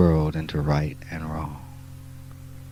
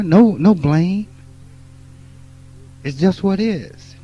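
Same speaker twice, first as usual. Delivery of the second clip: higher and louder, driving each "no" hard; emphatic shouting; 9 semitones higher, 7 dB louder than usual. Real, not acted. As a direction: preach it at full force, hammering the point. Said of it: "My language now is emphatic".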